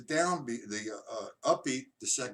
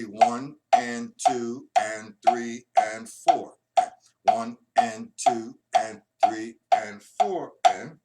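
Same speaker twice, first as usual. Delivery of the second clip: slow counting; 8 dB louder, much slower than usual. Shown as a demonstration. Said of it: "line three in the stick control book".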